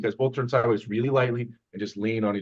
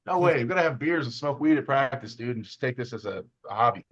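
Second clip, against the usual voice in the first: mock refusal. Voicing lazy arm wrestlers' objection.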